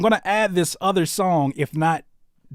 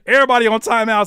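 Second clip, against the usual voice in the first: quoting Courtney; 6 semitones higher, 7 dB louder, faster than usual. Retold or imitated. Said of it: "said Courtney".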